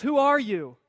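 lightly put-on Spanish swordsman accent; Inigo Montoya. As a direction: demand it in a hammy Spanish accent. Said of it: "that's my best Spanish accent".

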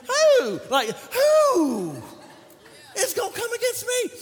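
squeaky voice crack on who. Shown as a demonstration. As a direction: crack it high like a junior high kid. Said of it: "junior high years where your voice was cracking".

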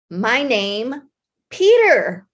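lightly imitated little boy insisting on his name; pause, then hit the name hard; indignant little boy. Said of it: "he has this beautiful accent".

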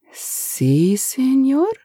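put-on Spanish-accented, desperate plea, slow; pleading Spanish accent. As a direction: beg the boss in a Spanish accent. Eustasio questions.

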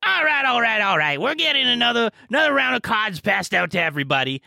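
put-on old lady host hushing her players; bingo host. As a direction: settle down a rowdy old crowd. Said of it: "the host is like".

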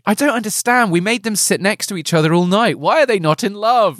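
puzzled, as if it always worked; a touch of a baffled father; bewildered parent. Pretend. Parents puzzled at failed match.

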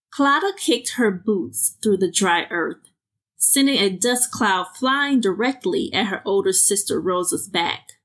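calm storytelling read; measured fiction narration; story narration. A narrator's reading. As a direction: read the tale to listeners. Reads her flash fiction.

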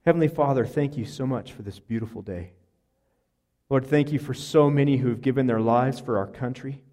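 earnest pastor's prayer, swelling on each address; closing prayer. Acted. Pastor leads the congregation in prayer, earnest. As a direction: pray over the congregation with conviction.

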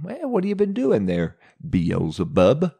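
a lightly voiced God, rising high and curious; God casually questions Satan, who has come before him; God asking. God asks Satan where he has been, high and curious.

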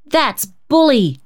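put-on high, slow boyish cry of delight; a little boy thrilled. A narrator's reading. Cecil cheering the plan, high delighted boy's cry. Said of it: "cried Cecil".

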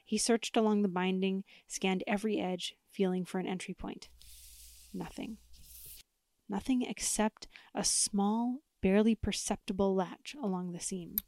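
lightly dramatic storyteller; spooky story narration. Acted. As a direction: tell it like a campfire tale. Reads spooky story with music.

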